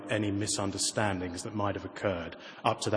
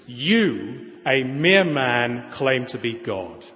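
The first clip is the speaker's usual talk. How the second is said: slow, louder accusing voice; in a rage; 5 dB louder, much slower than usual. Acted. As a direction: spit out the charge like an angry mob. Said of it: "In a rage".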